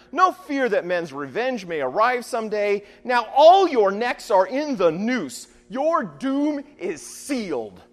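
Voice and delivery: restrained, declaimed shout of a returning hero; forceful dramatic recitation, slowing to a sentence of doom; Odysseus shouting back. Acted. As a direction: proclaim vengeance to a room of enemies. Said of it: "the wily fighter Odysseus shouted back".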